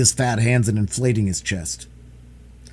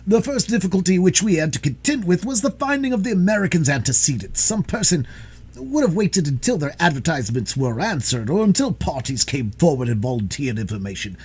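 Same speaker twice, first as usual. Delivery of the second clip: higher-pitched, boastful storyteller; a touch of a detective showing off; lightly voiced self-important detective; 5 semitones higher than usual. Detective explaining his method to Holmes, mildly boastful.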